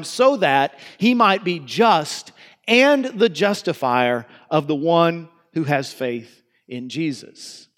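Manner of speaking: slow, measured reading of the verse; scripture reading. Acted. Pastor reading Romans to the congregation, measured and slow. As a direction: read the passage aloud with weight. Reads scripture passage aloud.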